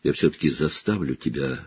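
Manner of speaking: fading to a rasping whisper; hoarse prisoner pleading to be heard. Acted. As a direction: force the words out, barely voiced. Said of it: "хрипло проговорил он".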